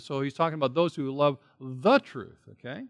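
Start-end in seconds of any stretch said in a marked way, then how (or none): 1.6-2.4 "the" made prominent before "truth"; emphatic THE. Shown as a demonstration. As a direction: stress on "the", not "truth". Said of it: "the truth in the Greek".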